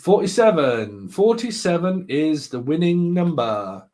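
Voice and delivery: drawn-out mock announcer call; lightly put-on prize-draw announcement, slow. Host tells viewers the winning number, playful announcer.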